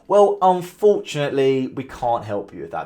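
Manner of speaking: slow, drawn-out, dismissive "Well, unfortunately"; sarcastic. Shown as a demonstration. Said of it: "That's the kind of vibe".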